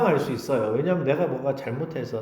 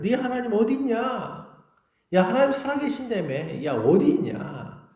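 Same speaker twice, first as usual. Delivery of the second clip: mocking taunt; 7 semitones higher than usual. Enemies jeering at the believer about an absent God, mocking taunt. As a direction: taunt them with a sing-out challenge. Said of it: "조롱하면서".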